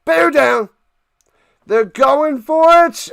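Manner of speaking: rally the team with real urgency; excited rallying call. Real, not acted. Fan-commentator as they go for it, excited shout.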